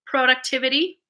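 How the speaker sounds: productivity with a long O, PROH-ductivity; Canadian pronunciation. Shown as a demonstration. Showing how I say it, productivity with a long O. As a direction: start productivity like "pro". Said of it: "That's how I say it".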